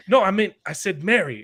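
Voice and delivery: imitated British accent of a 1960s band member. Jesus corrects himself to Mary, in a mock British band-member accent. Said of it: "they're all talking in their British accents".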